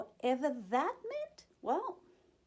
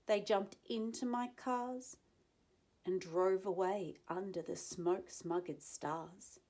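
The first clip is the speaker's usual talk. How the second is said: story narration. A narrator's reading. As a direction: read it gently to children. Reading the story to children.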